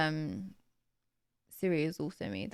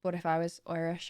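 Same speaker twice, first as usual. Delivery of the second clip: tentative Irish accent; 4 dB quieter than usual. Shown as a demonstration. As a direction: try on an Irish lilt. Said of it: "An Irish accent".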